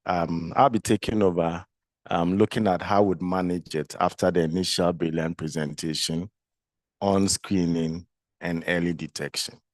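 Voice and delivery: groggy voice from a flu. Real, not acted. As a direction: talk through a bit of a flu.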